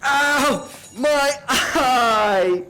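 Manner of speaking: high, loud cry of pain; pained yelp. Acted. Bill crying out after stabbing his eye, high pained yelp. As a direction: yelp as the spoon hits.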